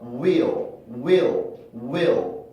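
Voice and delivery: "will"을 '위얼'처럼 중간 소리를 끼워서; "will"을 느리게, 혀가 내려갔다 올라가는 L로. Shown as a demonstration. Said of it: "이렇게 발음이 됩니다". ("will", 모음과 L 사이에 소리 하나가 낀 듯이)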